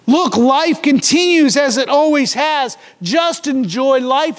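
breezy, dismissive scoffer; tossed off like a careless slogan; false teachers' carefree mantra, slowing on "Just enjoy life"; mocking mantra. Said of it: "is the mantra of the false teachers".

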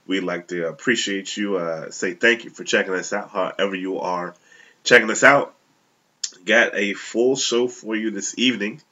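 stuffed-up nasal voice from a cold. Real, not acted. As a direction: talk through a blocked, nasal nose. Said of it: "excuse me if I sound a little nasally".

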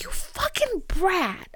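high, hissed self-scolding; mock whispered rebuke. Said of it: "I'm like".

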